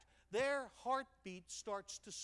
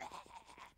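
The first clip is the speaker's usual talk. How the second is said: breathy dog laugh; 11 dB quieter than usual. Retold or imitated. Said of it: "He's like".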